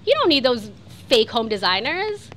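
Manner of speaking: indignant outburst. Real, not acted. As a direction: fire back loudly, outraged for a friend. Indignant on the character's behalf.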